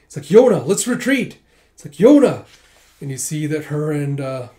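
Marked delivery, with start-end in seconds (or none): 0.3-1.4 higher, much louder battlefield cry; urgent call to fall back; urgent shout. Acted. Warrior urging retreat in battle. 1.9-2.5 higher, much louder battlefield cry; urgent call to fall back; urgent shout. Acted. Calling Yona in battle.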